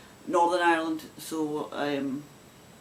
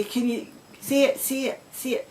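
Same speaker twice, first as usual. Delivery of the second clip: pleading request; 4 semitones higher than usual. Retold or imitated. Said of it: "people will say".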